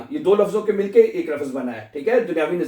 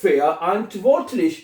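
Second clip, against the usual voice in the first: "Fair and worthless" as Fe-a, ant, vort-lish, with long gaps; slow syllable-by-syllable demo of "Fair and worthless"; broken into parts; much slower than usual. Shown as a demonstration. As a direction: pause after each part of "Fair and worthless". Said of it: "लफ्ज को तोड़ना है".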